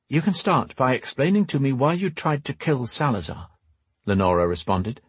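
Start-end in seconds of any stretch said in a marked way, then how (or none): 0.1-3.5 lightly voiced stern woman, higher pitch; stern noblewoman. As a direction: demand an explanation in a slightly raised-pitch voice. Voices Lenora in the story.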